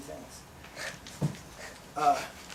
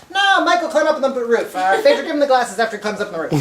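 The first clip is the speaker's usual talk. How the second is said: higher, louder call from inside the barn; 7 semitones higher, 13 dB louder, faster than usual. Retold or imitated. Boss shouting from the barn to Michael, a loud call. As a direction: yell it across the yard, fast.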